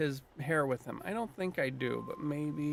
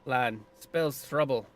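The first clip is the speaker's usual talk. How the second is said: light Scottish brogue, foreboding; lightly voiced grim Scottish druid; Scottish accent, ominous. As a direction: warn of death in a hint of Scottish lilt. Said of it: "I'm giving him a Scottish accent".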